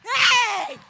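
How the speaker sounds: sudden high shout; loud pulpit cry. Real, not acted. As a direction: throw out a sharp "Hey!". Preacher's exclamation.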